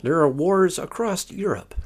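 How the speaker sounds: slow, high newsreader tone; news anchor. Pretend. Parent joking, reading mock headlines as an anchor. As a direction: read it like a grave headline. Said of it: "breaking news".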